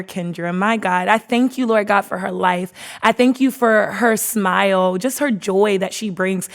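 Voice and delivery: earnest, steady prayer voice; heartfelt prayer. Acted. Host praying over her guest, heartfelt prayer. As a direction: pray over her with feeling.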